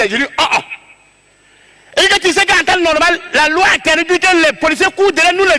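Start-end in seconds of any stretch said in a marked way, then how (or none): 0.1-2.0 drawn-out oh. Retold or imitated. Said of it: "tout ce que moi j'ai dit".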